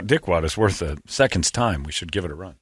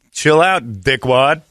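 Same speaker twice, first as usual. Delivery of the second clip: higher, louder Austrian Arnold accent; 4 semitones higher, 3 dB louder, slower than usual. Shown as a demonstration. Host showing his co-hosts the line in an Austrian accent. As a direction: punch it out like Schwarzenegger in an Austrian accent. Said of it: "the only way you could say it is in that accent".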